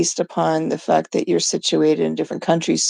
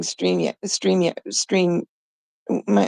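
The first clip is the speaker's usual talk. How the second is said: tripping over the word; stammering the name; stuttering; 5 dB quieter than usual. Real, not acted. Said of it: "I'm stuttering".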